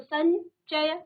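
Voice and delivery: संचय slowly, palatal n before च; teacher sounding out संचय; nasal demonstration. Shown as a demonstration. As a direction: stretch संचय into सन-चय. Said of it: "च वर्ण का अंतिम वर्ण यो है".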